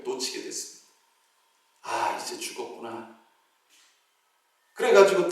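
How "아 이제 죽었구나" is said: softer, whispered resignation; hopeless whisper. Retold or imitated. Deacon losing his grip on the tree, whispered despair. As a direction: breathe it out as if giving up.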